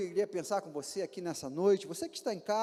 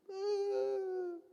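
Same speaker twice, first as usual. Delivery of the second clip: mock sob; 10 semitones higher than usual. Mimics people coming in tears.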